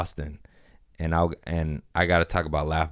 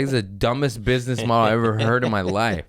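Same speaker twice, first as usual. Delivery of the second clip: retold roast; 4 semitones higher than usual. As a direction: lay into him, half joking, pitched up. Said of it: "I was like".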